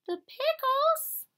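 high rising puzzled question. Real, not acted. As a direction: sound baffled by it. Reader puzzled by pickles.

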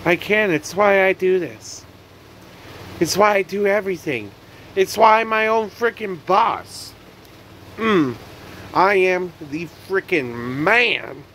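boasting to viewers he's his own boss; cocky hype. Real, not acted. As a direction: crow about it, pitch up. Self-pep rant climax.

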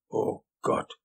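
disgusted groan; angewidert. A narrator's reading. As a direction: let revulsion drag the words out. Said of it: "sagte Wisconski angewidert". (angewidert gestöhnt)

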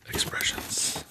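whispered perfume commercial voice; sultry perfume ad. Pretend. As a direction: breathe it out like a fragrance ad. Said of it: "You have to say it like a perfume commercial".

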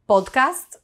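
podcast with pure Spanish vowels; Spanish accent. Shown as a demonstration. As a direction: say podcast as a Spanish speaker would, "pohd-kahst". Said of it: "we have a Spanish accent".

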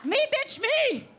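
hammed-up yell from a drunk fan; drunk friend yelling. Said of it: "one friend that's like".

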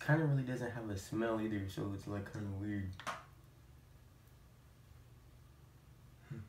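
fingers brushing lips while talking; partly covered mouth; speaking with hand at mouth. Real, not acted. Seen 1: fingers rub mask near mouth and cheek through the words.

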